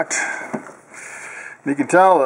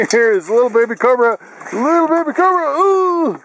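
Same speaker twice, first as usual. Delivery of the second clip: high cooing voice for the dog; 10 semitones higher than usual. Real, not acted. Greeting the grown puppy.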